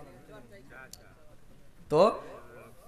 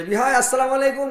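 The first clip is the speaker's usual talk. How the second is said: loud, high greeting from afar; calling out; 8 semitones higher, 8 dB louder than usual. Acted. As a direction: hail the in-law across the field. Greeting in-law from the field.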